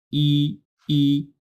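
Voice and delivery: "ই" as a long held ee; "ই" for letter i. Shown as a demonstration. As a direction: draw out a clear "ই". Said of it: "আই উচ্চারণ কিভাবে করতে হয়". (টেনে "ই" উচ্চারণ)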